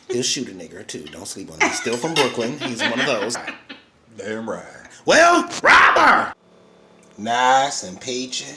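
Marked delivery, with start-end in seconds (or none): 5.0-6.3 calling out. Real, not acted. Calling across the apartment to Robert. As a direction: stretch the call out to Robert.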